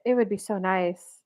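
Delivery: imitating a sweet, persistent wife. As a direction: coax him sweetly, lightly acted. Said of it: "being so sweet about it".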